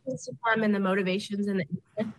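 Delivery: choppy call audio with echo; breaking up audio. Real, not acted. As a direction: voice cutting out on a bad line. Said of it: "You're breaking up".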